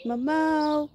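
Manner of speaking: high sing-song voice for the dog; cooing pet talk. Real, not acted. Owner cooing at her little dog, high and sing-song.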